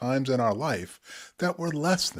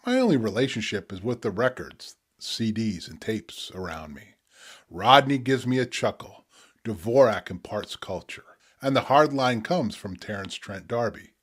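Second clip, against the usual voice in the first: spoken word poetry. Acted. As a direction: let each image land, pause between. Reads his poem Strawberry Blues.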